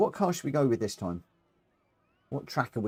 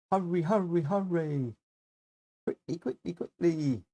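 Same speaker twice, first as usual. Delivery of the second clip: playful urging; 5 semitones higher than usual. Pretend. Urging the slow game along.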